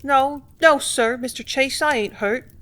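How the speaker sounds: put-on tearful girl. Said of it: "why are you crying".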